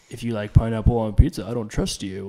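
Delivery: flat internet meme read; deadpan meme voice. Retold or imitated. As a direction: say it like a meme caption. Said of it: "Is that your meme voice?".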